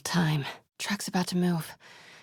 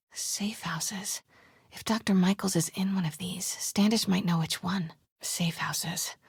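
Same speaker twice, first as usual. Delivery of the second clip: whispered sneaking thoughts; stealth whisper. Acted. Sneaking into the compound, whispering plans to herself. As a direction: keep it under your breath while sneaking.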